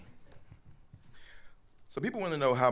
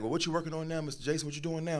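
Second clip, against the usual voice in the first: curious schoolboys; 8 semitones higher than usual. Retold or imitated. Voicing suspended schoolboys.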